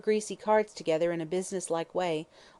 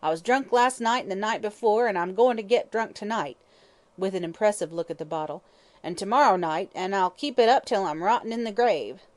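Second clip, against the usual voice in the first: malignant hag; 3 semitones higher, 5 dB louder than usual. Acted. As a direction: spit out your defiance. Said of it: "hatred and suppressed malignity was her voice".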